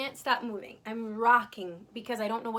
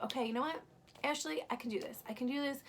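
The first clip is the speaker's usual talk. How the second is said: acted self pep talk; 3 semitones higher than usual.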